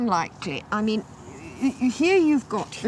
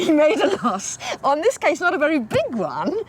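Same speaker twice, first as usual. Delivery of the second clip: laughing; 4 semitones higher than usual. Real, not acted. Laughs at the loss.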